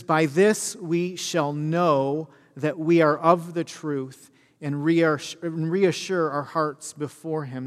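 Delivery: slow, measured Bible reading; scripture reading. Shown as a demonstration. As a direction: read the verse slowly and solemnly.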